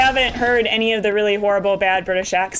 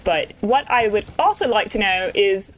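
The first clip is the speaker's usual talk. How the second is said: hammed-up amateur British accent; bad British accent. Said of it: "a really bad British accent that I'm doing".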